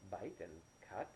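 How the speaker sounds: slow, questioning, a little hushed; puzzled. Acted. Elena puzzles over the doctor's strange question, slow puzzled echo. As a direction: turn the words over, not understanding.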